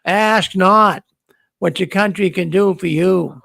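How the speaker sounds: a light hint of Kennedy's speech cadence; lightly voiced JFK oratory, barely changed; understated Kennedy speech read; Kennedy impression. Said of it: "I can kinda talk like him too".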